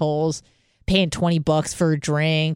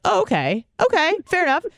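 higher, sarcastic concession; mock agreement; 11 semitones higher, faster than usual. Host humoring the flat earther, sarcastic. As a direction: humor him with a sarcastic okay. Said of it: "I'm like".

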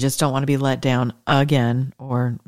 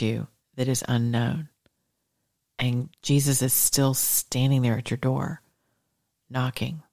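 soothing bedtime blessing. Acted. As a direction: lull them toward sleep.

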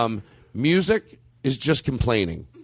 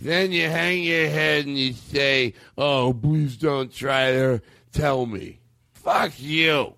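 slow, mildly angry mock lament; angry drunken uncle; much slower than usual. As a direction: drag it out like a complaining drunk uncle. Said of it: "that's the anger".

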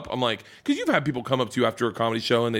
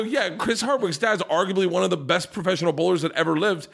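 laughing while talking; 5 semitones higher than usual. Real, not acted. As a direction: get the words out through a laugh. Laughing through retold line.

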